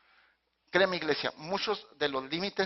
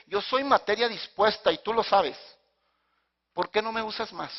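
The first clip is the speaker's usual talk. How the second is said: praying plea; 5 semitones higher than usual. Shown as a demonstration. Pastor demonstrating his own prayer, high insistent plea. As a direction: press the request upward to God. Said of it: "Esa es la oración que yo le hago a Dios".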